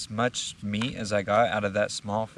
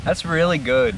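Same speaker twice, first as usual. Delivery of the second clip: delighted; 6 semitones higher, 9 dB louder than usual. Real, not acted. Delighted by the taste.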